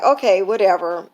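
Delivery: brushing it off, a bit annoyed; irritated "whatever" with some attitude; curt retold brush-off; dismissive attitude. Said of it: "that's just how my attitude was".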